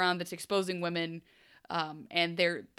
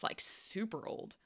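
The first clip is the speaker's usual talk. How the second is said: hushed; 10 dB quieter, slower than usual. Real, not acted. Hushed aside.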